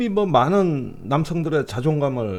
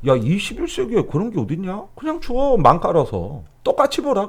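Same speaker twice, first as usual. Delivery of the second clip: lightly voiced blunt leader; imitating the president. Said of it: "윤석열 대통령이 깜짝 놀랄 얘기를 하는 거지".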